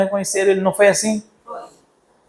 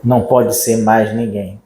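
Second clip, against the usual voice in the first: low, slow and hushed; awed certainty; 6 semitones lower, slower than usual. Retold or imitated. Peter at the tomb, hushed awe. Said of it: "Pedro diz".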